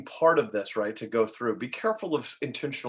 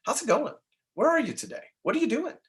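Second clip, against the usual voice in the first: much higher, chirpy friendly greeting; bright check-in; 13 semitones higher than usual. Shown as a demonstration. Agent checking in on a client, bright and high. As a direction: greet the caller brightly, pitch way up. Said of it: "we gotta check in on that".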